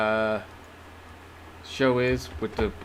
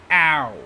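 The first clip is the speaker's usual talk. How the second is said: pained ow; 5 dB louder than usual. Real, not acted. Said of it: "See, just doing that".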